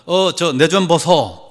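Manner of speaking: slowed Gyeongsang accent imitation; Gyeongsang dialect. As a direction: call for attention in drawn-out Gyeongsang dialect. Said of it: "경상도 사람들은".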